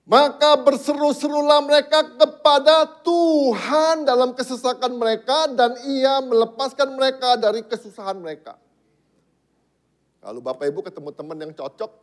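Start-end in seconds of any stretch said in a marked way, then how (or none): 0.1-8.6 high, very loud scripture proclamation; shouted cry. Real, not acted. Preacher showing how they cried to the Lord, shouted. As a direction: cry the verse out at full force, drawn out. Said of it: "Teriak sama Tuhan".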